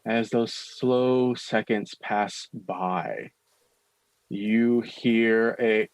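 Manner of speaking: very slow, suspenseful delivery; game master narration. A narrator's reading. Game master leads up to a sound in the fog, slow suspenseful narration. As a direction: stretch each word to build dread.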